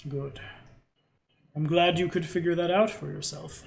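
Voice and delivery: short, dry, lightly voiced hobgoblin; curt hobgoblin. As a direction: clip each word off. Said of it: "very curtly".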